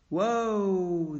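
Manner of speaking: loud, high piercing cry. A narrator's reading. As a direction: cut through the rattle. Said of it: "cried in a piercing voice".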